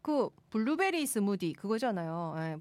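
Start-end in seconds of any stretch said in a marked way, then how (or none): 0.0-1.5 Gyeongsang pitch swing on 블루베리; Gyeongsang dialect. Shown as a demonstration. Host recalling the test phrase, Gyeongsang accent. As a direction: say 블루베리 스무디 with a Gyeongsang lilt. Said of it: "경상도 사투리로".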